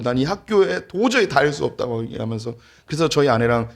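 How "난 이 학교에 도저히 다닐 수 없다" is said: high mock-exasperated declaration; retold fed-up outburst. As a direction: imitate a fuming son refusing to go on. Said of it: "막 열받아가지고". (열받은 아들을 흉내 내며 높게 선언하듯)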